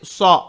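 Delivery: सौ said thick and rounded; heavy Sad. Shown as a demonstration. Teacher showing students the heavy सौ, thick and rounded. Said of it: "मोटा पढ़ेंगे इसे".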